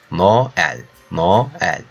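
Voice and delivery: "Noel" in two separated syllables, no-el; Turkish pronunciation. Shown as a demonstration. Teacher models the word for learners, "Noel" split no-el. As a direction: say "Noel" as no, then el. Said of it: "We also pronounce like that".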